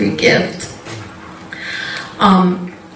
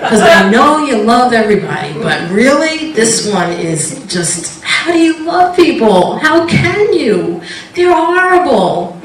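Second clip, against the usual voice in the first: exasperated believer praying at the TV; exasperated prayer; 3 semitones higher than usual. Retold or imitated. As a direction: beg the Lord in disbelief. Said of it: "I said".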